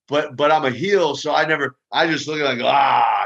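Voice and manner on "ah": mock growl. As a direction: growl him off like a wrestling heel. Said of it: "I just kinda growl him".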